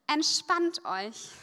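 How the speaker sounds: slow calming advice. Shown as a demonstration. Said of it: "was ich denen als erstes immer sage".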